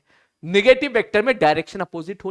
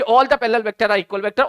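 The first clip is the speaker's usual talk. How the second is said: rattled-off statement, words run together; deliberately fast; 3 semitones higher, slower than usual. Shown as a demonstration. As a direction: race through it like a hurried teacher. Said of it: "मैं जानबूझ के fast बोल रहा हूं". (जानबूझकर जल्दी-जल्दी बोलना)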